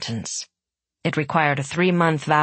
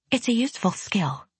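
defensive; 7 semitones higher, 3 dB quieter than usual. A narrator's reading. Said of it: "Hana said defensively".

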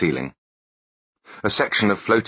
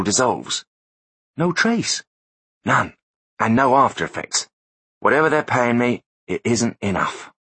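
higher, smug know-it-all voice; smug techie voice; 4 semitones higher than usual. Acted. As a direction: play the gloating tech expert, pitched up. Foley explaining gadget.

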